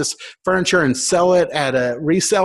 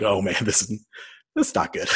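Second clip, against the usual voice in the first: worried whisper; 6 semitones lower, 6 dB quieter than usual. Retold or imitated. Anxious thought with police behind.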